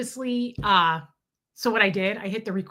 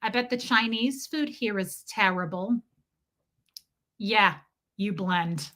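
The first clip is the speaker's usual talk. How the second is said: Marissa Tomei. Acted. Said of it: "Marissa Tomei and my cousin Vinny".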